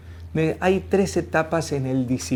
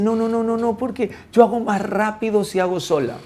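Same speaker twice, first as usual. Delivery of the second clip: higher, rapid-fire refusal; impatient acted "no"; dismissive mother; 7 semitones higher than usual. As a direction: play a busy mum brushing off her child. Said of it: "Y entonces la mamá dice".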